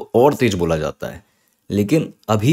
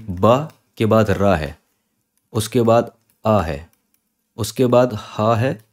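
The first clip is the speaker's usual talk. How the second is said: slow, letter by letter breakdown; slow teacher spelling; slower than usual. Shown as a demonstration. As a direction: spell each sound out slowly. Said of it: "अगर हम इसको तोड़ के लिख पाएंगे".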